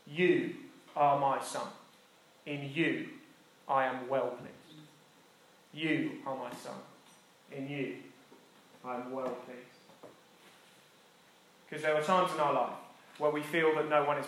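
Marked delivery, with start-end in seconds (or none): 0.1-4.9 slow, soft and tender; tender voice of God. Acted. Reading God's words. 5.7-9.6 soft tender echo. Shown as a demonstration. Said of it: "repeats the blessing softer".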